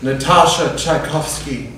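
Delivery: puffed-up, laughing self-praise; grandiose self-praise. Acted. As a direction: praise yourself like a goddess.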